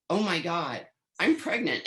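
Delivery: giddy laugh through the news; laughing disbelief. Retold or imitated. Retelling the positive pregnancy test.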